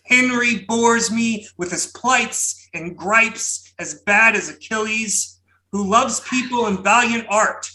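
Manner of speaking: dramatic booming poetry recitation. Pretend. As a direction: boom it out like a grand old poet. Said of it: "my most outlandish Berryman-esque booming voice".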